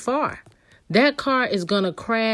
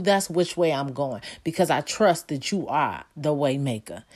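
spoken prayer. Acted. Models a prayer of adoration.

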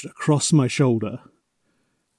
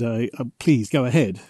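mildly flustered, halting reply; imitating a starstruck stammer; lightly stammered. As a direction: stumble gently into the polite go-ahead.

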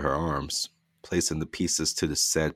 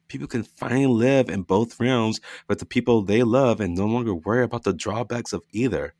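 lightly voiced husband; 5 semitones higher than usual. Dustin coaxing his wife.

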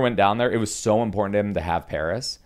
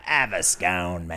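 bad British accent. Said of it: "every accent that would just happen here was bad".

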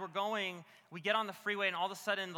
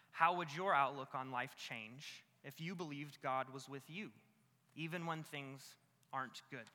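low, softer, reflective question; gentle question; 4 semitones lower, 6 dB quieter than usual. Real, not acted. Preacher asking the congregation a question, gently. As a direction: pose it quietly for them to ponder. Question put, then repeated with urgency.

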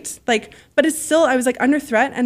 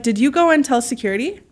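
polite question, lifting at the end; retold question in a nice, kind voice; 2 semitones higher than usual. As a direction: ask it nicely, with a rising end. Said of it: "So you're saying in a nice voice".

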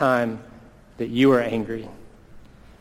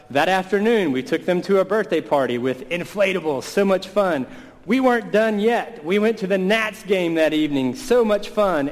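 high-pitched, rising enthusiasm; excited recounting; 6 semitones higher than usual. Retold or imitated. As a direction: gush over one treat after another. Piling up a day of fun.

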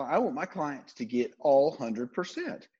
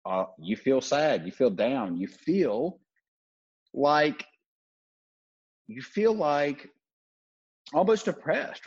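slumped and sad; slower than usual. Shown as a demonstration. Coach showing listeners how slumping feels, deflated. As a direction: let the words sag like slumped shoulders. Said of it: "How do I feel right now?".

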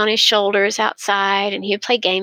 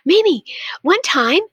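put-on excited child; 5 semitones higher than usual. Grandson bursting to tell his grandmother his story, excited. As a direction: gush it out like a thrilled little boy. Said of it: "he got so excited. He started saying".

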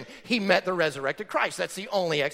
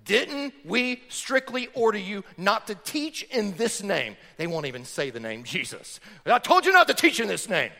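religious leaders. Retold or imitated. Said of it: "The religious leaders say to them".

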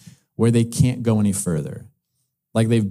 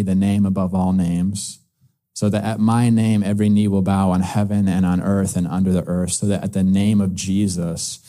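voice of God; 4 semitones lower than usual. Acted. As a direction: speak as God declaring his name, deep and unhurried. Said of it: "as though God is saying".

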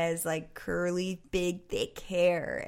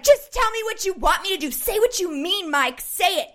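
high and louder, exasperated snapping; demanding, fed up; irritated outburst; 10 semitones higher, 5 dB louder than usual. Retold or imitated. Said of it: "I was like".

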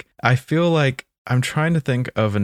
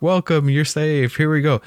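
welcoming; 5 semitones higher than usual. Retold or imitated. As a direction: play a pigeon kindly greeting a newcomer. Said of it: "so welcoming".

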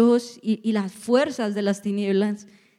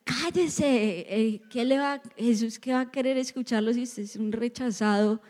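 slightly raised pitch, mock scolding; scornful crowd; 2 semitones higher, 4 dB quieter than usual. Crowd silencing the beggar, lightly acted scorn. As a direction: lightly imitate people dismissing a beggar. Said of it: "La gente le decía".

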